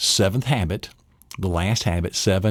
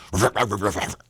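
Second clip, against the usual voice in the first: mock gruff barks; playful ruff sounds; dog profanity. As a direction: growl out dog swearing. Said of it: "dog profanity".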